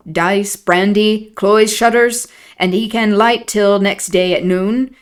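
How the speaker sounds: put-on broad old Yorkshire servant voice; Yorkshire dialect. Nellie voicing old Joseph in thick dialect. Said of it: "Nellie doing an impression of Joseph".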